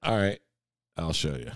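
soft growly tiger voice; growling tiger voice. Acted. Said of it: "That's a good Tiger voice".

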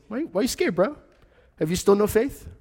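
high-pitched, playful bro voice; teasing his friends lightly; casual Jesus. Acted. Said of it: "And Jesus is like".

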